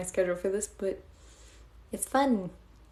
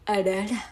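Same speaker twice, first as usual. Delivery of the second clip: Japanese-style roar. Pretend. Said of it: "arara is, like, my Japanese voice".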